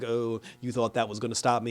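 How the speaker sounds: gloating villain. Retold or imitated. Villain gloats after surviving the blast.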